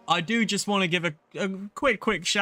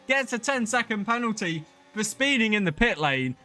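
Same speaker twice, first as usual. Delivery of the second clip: excited play-by-play; 4 semitones higher than usual. Real, not acted. Live call of pit gamble.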